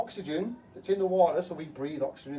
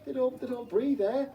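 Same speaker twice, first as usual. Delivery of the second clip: "They don't, they don't breathe air" squeaked much higher in a scoffing tone; mocking repeat; 8 semitones higher than usual. Shown as a demonstration. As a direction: parrot the claim back in a high, mocking squeak.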